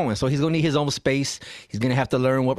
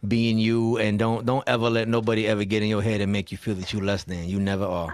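lower, steady, heartfelt reassurance; sincere real talk; 4 semitones lower than usual. Real, not acted. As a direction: drop the joking and tell them sincerely. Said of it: "real talk".

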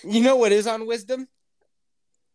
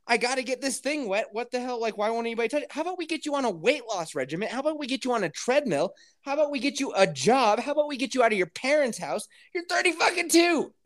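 exasperated rant; 5 semitones higher than usual. Retold or imitated. Acts out exasperated rant at man.

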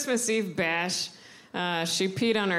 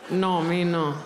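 great-grandmother laughing it off, lower; great grandma denying; 4 semitones lower, slower than usual. Retold or imitated. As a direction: lower old abuela voice with a laugh. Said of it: "my great grandma's voice".

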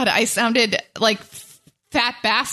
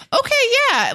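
mock reaction; faster than usual. Mock reaction to eager teacher.

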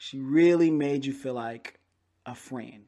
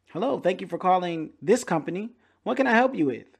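cheery agent; 5 semitones higher than usual. Retold or imitated. Imitates cheerful call-centre agent.

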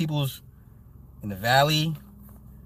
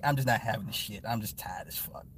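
put-on softer, lower tired old man mumble; weary grumble; 5 semitones lower, 9 dB quieter than usual. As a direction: mutter it fed up with everything. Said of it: "the old man's like".

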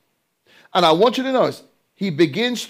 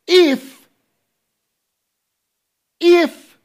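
very high, loud shout on the word; preaching shout; 11 semitones higher, 6 dB louder than usual. Real, not acted. Preacher shouting the condition at his congregation. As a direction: cry it out from the pulpit.

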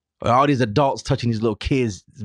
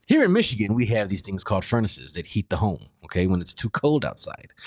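patronizing explaining. Shown as a demonstration. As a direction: explain it like to a child. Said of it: "as if you don't know what a furnace is".

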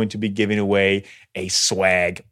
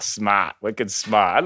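put-on Boston accent; much slower than usual. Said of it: "that is literally my favorite accent".

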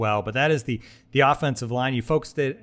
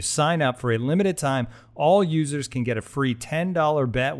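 upbeat sponsor read. Acted. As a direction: sell it like a podcast ad host. Host reads sportsbook sponsor ad.

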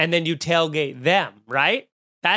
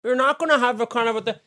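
high voice through a jutted jaw; Steve Carell fake-chewing; 6 semitones higher than usual. Shown as a demonstration. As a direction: talk round food that isn't there. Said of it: "nobody talks like that".

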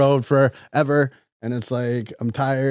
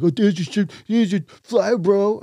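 higher, sing-song mimic of the comedian; mocking imitation; 8 semitones higher than usual. Jersey Shore guy mocking the comedian, higher and sing-song. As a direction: parrot him back to needle him. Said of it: "starts mocking me".

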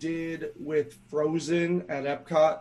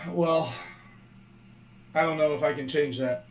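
robot voice; faster than usual. Real, not acted. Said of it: "you're still a robot".

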